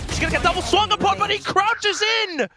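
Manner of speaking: excited. Real, not acted. Caster calls a clutch play.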